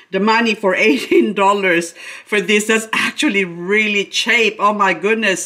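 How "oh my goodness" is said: ordinary delivery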